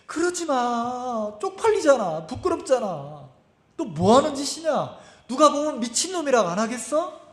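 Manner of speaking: high-pitched protesting inner voice; embarrassed inner voice. Retold or imitated. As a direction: plead with yourself to stop the embarrassment. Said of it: "그러니까 속에서". (높은 톤으로 말리는 속마음)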